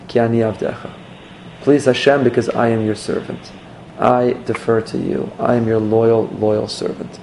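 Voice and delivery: bow your voice down like a servant; a quiet, humble servant's prayer; humble devotion. Shown as a demonstration. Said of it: "have greater Kavanah when you say".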